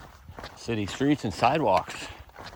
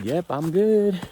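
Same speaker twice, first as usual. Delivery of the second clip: high, louder reassuring holler; imitated call back; 9 semitones higher, 5 dB louder, slower than usual. Hiker answering the guy above after a fall, high mock holler. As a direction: re-enact calling up to someone far off. Acts out calling back up switchbacks.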